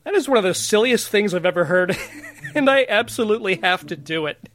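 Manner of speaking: giggling through a mock pep talk to himself; half-laughing, tickled by the silly idea; amused inner voice breaking into laughs; laughing self-talk. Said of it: "So I thought to myself".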